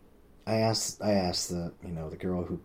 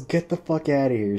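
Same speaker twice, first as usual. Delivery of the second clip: mock yell, higher and louder; retold shout; 6 semitones higher, 5 dB louder than usual. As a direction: shout her off like she's annoyed. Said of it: "she goes".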